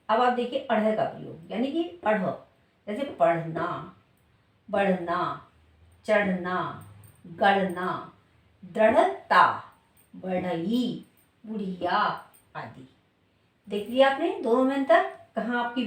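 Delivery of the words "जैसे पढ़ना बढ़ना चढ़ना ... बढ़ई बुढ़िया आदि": each word read out slowly with the flapped ढ़, as in पढ़ना and बढ़ई; teacher's word list, clearly sounding the ढ़ in गढ़ना; flapped ṛh demo. Shown as a demonstration. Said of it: "उच्चारण पर depend करता है".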